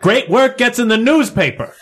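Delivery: angry. Acted. Reporter argues with the chief.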